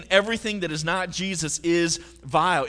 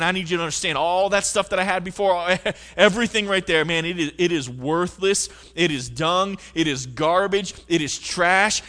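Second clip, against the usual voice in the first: 1 emphatic Paul; 4 dB louder than usual. Pretend. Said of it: "He's saying".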